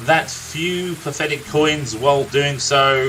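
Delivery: a lightly voiced grizzled old storyteller, unhurried; a gruff old warrior recounting his friend's youth; storyteller NPC. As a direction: tell the tale like a weary veteran by the fire.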